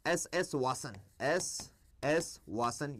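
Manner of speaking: slow, stretched name; drawn-out name. Shown as a demonstration. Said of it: "owned by".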